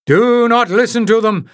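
high, loud, frantic shout; panting shout. A narrator's reading. Oris warning the crowd against the strangers, breathless high shout. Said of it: "he panted".

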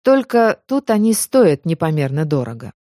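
plain reading voice

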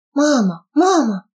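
high sobbing cries; crying out. Acted. Daughter wailing over her dead mother, sobbing.

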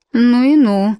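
put-on a light Irish accent, exclaiming; lightly voiced Irish maid. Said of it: "с отчётливым ирландским акцентом провозгласила".

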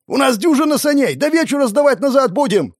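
high, loud exasperated yell; shouting over the wind. A narrator's reading. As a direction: keep yelling over the storm. Guard chief shouting in storm.

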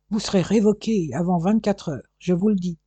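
angry suspect threatening the detective; spat threat. Acted. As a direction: spit the threat at him. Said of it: "cracha Vacariadès Bocklifan".

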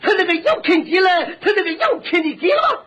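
Shandong dialect argument, climbing high at the end; exaggerated Shandong shopkeeper; Shandong butcher. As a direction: explain insistently in thick Shandong speech. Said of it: "我论着管他叫张大爷".

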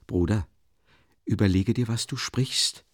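a touch of upset urgency, pitch lifting; understated agitation; mildly agitated. Acted. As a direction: warn your brother, a little stirred up. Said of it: "begann Awdotja Romanowna erregt".

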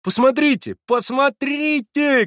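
very high and loud; shouting excitedly. A narrator's reading. Alyosha shouting to the narrator, high and loud. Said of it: "кричал он".

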